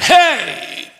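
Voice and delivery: sharp high hey, half acted; high derisive hey. Shown as a demonstration. Pastor acting the demon's scornful hey at Jesus. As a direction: toss out a mocking hey at Jesus. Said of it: "It's the idea".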